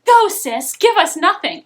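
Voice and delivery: loud sassy meme chant. Retold or imitated. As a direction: hype it up sarcastically. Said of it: "it's that meme".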